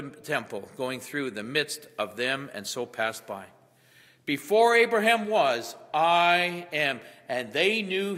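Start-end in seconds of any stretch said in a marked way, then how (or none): 4.3-7.0 louder, higher, ringing proclamation; proclaimed loudly. Acted. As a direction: declare it to the whole temple. Repeats the quote, proclaiming.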